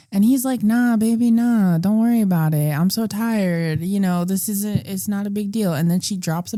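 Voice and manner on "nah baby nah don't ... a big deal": put-on placating boyfriend. Boyfriend brushing off his girlfriend's worry, mock placating. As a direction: stretch the words, lazily soothing her.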